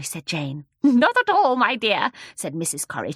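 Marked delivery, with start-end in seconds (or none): 0.8-2.1 put-on loud, high amused old lady; chuckling. A narrator's reading. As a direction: chuckle through the reply.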